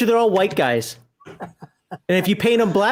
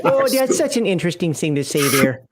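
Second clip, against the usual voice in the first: put-on Yooper accent; 3 semitones lower than usual. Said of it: "I just go in the Yooper accent".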